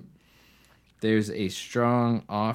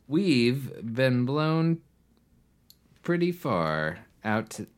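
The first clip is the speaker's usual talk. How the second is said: laughing; 3 semitones higher than usual. Real, not acted. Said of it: "laughing while reading".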